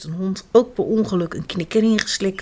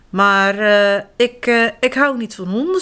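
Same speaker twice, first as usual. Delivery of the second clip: halting, stumbling start with ums; stammering; 3 dB louder than usual. Acted. The man protests he dislikes dogs, stammering. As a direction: trip over the words nervously. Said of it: "stamelt de man".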